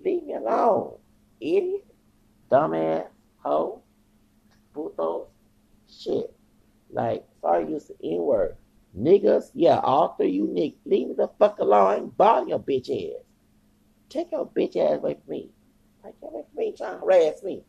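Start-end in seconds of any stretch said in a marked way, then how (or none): 0.0-6.3 furious yell. Retold or imitated. Man screaming at three men to leave him alone, furious. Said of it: "I'm like". 9.0-17.6 high, loud screaming at them, voice cracking up; furious yell. Retold or imitated. Man screaming at three men to leave him alone, furious. Continued yelling at harassers.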